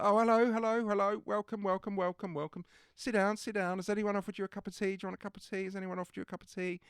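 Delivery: high, loud, gushing welcome; effusive Bailey greeting. Retold or imitated. Imitating Bailey welcoming a guest, high and gushing. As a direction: fuss over the guest like a jolly host.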